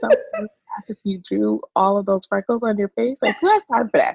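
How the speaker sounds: reading the comment through laughter, rising high; mock-incredulous, half laughing; laughing retell. Cohost retelling a silly comment, laughing.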